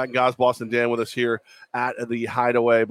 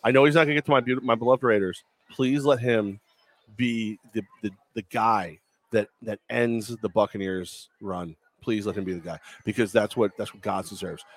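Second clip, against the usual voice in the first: mock prayer; 5 semitones lower than usual. Host jokingly prays for the player's draft team, hushed. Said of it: "I'm gonna do a quick prayer".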